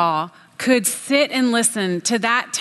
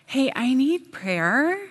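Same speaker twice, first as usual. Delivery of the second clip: fake pious request; 3 semitones higher, slower than usual.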